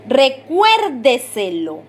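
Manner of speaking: "recuérdeselo" slowly, leaning hard on "cuér"; golpe de voz marcado. Shown as a demonstration. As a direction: stretch the stressed "cuér" in "recuérdeselo". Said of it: "se escucha el golpe de voz". ("recuérdeselo" lento, con golpe de voz en "cuér")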